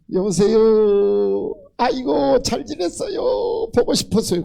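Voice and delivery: drawn-out syrupy hello on the phone; sweet phone greeting. Retold or imitated. Pastor phoning an elder evangelist, sugary greeting. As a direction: gush as if thrilled to call.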